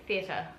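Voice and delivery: "theatre" with no r at the end; own shortened theatre. Shown as a demonstration. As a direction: say "theatre" lazily as thee-a-tuh. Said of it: "So I would say this".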